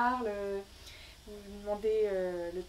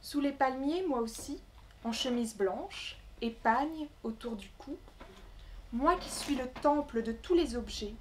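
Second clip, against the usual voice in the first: measured recital with long pauses between phrases; poem reading. Acted. Poet reading her Congo travel poem to the gathering, measured recital. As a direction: recite it line by line, letting each phrase settle.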